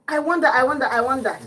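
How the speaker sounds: mock musing. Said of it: "repeating his words".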